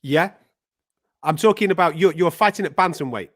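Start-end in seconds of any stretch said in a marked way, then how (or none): 1.2-3.3 quick, lively explanation, slightly raised; talking fast. Real, not acted. Interviewer clarifying the weight class to a confused fighter, talking fast. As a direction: explain it in one quick rush. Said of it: "You talk very fast".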